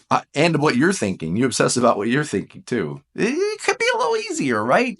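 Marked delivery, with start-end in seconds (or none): 3.2-5.0 mock whiny voice.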